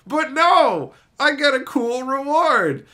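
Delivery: whiny slave. Retold or imitated. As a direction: demand your prize like a cheated kid. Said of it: "the guy's like".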